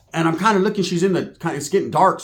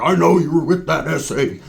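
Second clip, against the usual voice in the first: louder, put-on biker challenge; mock accusation; 4 dB louder than usual. Biker confronting the screaming chick, mock accusing. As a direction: accuse her like a jealous biker.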